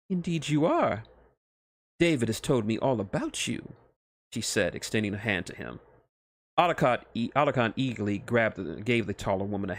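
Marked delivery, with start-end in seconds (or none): 0.1-3.7 a hint of a sultry witch; mildly higher excited recognition; lightly voiced Bayonetta. Witch greeting the doctor, a touch excited.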